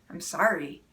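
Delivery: imitating a husband's low, curt sorry; a mild mock of an empty apology; grudging sorry. Wife imitates her husband's hollow apology, low and grudging. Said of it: "When my husband says it to me like that way".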